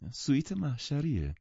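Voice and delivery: polite and gentle. A narrator's reading. Jordan to the friends in the stuffy suite, politely and gently. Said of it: "مؤدبانه و آرام گفت".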